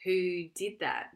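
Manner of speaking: slow, breathy seething; quiet anger. Real, not acted. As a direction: seethe it out slowly. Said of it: "I'm so angry".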